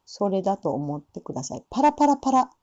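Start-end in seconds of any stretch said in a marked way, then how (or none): 1.7-2.5 パラパラパラ with three quick light tapped flaps. Shown as a demonstration. Teacher demonstrating a light flapped ra to students. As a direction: tap パラパラパラ lightly off the tongue. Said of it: "パラパラで練習するといいと思います".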